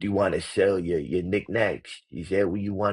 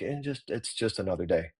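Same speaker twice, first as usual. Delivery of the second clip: offhand, no big deal; 5 dB quieter than usual. Shown as a demonstration. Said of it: "I'm like".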